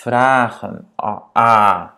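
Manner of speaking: VRAGEN with a long AA, then the A held; long vowel. Shown as a demonstration. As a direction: stretch the A of VRAGEN and repeat it loud. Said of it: "On a A et pas A".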